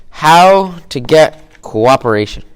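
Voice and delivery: drawn-out emphatic topic announcement; announcing the topic. Shown as a demonstration. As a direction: announce it like a big title card.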